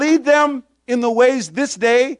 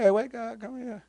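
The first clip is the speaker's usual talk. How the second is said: mock alarm voice; 12 dB quieter than usual. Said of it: "It's speaking words about it's a great day".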